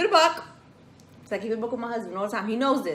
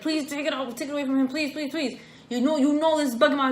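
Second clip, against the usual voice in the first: anxious pleading; 4 semitones higher than usual. Retold or imitated. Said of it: "literally just like that".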